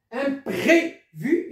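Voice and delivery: "Imprévu" drawn out slowly with a closed é. Shown as a demonstration. Teacher slowly modelling the closed é in imprévu. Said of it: "il est fermé".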